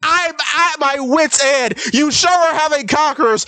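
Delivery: high, whiny, exasperated complaint; exasperated rant. Real, not acted. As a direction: rant at wit's end, voice cracking. Continued rant about fish man.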